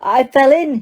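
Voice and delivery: put-on high, shrill excited boy. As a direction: squeal it out, thrilled. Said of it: "he said shrilly".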